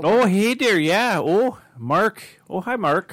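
put-on high, cheery accented greeting; Tommy Wiseau impression. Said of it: "Tommy Wiseau".

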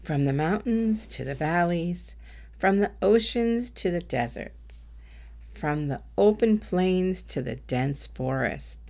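measured meditation voice with long pauses; guided meditation. Acted. Coach leading listeners in a world peace meditation, unhurried guided-meditation delivery. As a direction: guide listeners gently, phrase by phrase, leaving room to breathe.

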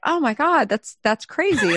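high, thrilled gasp with a laugh; excited disbelief. Retold or imitated. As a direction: hear the great news and laugh. Reacting to products selling out.

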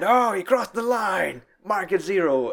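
mock Walter demanding a zero; Walter insisting. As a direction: lay down the law like Walter. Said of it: "He's like".

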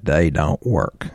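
slow, deliberate imitation of cocky dismissal; mildly cocky, emphatic. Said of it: "very emphatically, cockily said".

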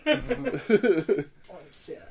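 breathy whispered awkward plea; shy, whispered and halting. Pretend. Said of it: "really awkward voices".

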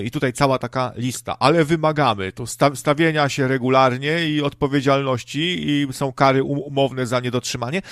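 pompous station manager voice, imitated; a hint of a condescending manager; mock radio boss. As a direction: lay out the terms like a smug radio exec. Mocking radio station offer.

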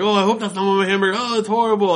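mock disgust in a Popeye voice; Robin Williams Popeye. Puppet Popeye mock-disgusted at the storyteller's smell. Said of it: "he's doing his Robin Williams impression".

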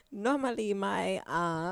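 hammed-up, badly faked Asian accent; halting mock Asian accent with a giggle; muddled Spanish attempt turned Asian accent. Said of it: "This is going very Asian".

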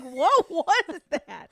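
high, loud startled whoa; startled coworkers. Retold or imitated.

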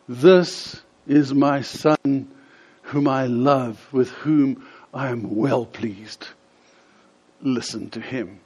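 slow, weighty voice from heaven; booming voice of God. Acted. God speaking from the cloud, slow booming voice. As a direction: proclaim it slowly like God from the cloud. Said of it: "this booming voice says".

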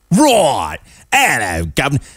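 hammed-up British greeting; fake British accent. Host parodying the singer as a Brit, fake British accent. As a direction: put on a cartoonish British accent. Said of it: "that kind of fake British accent".

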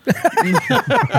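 a squeaky, jokingly shocked racism?; mock shock. Friend finishes the storytelling excuse with a mock-shocked squeaky racism. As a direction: jab at him with fake outrage.

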